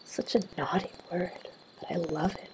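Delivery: hushed, confiding murmur; whispered. A narrator's reading. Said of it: "she whispers".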